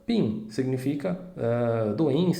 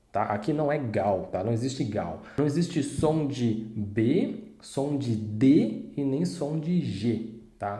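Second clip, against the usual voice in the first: normal talking voice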